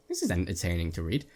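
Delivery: normal talking voice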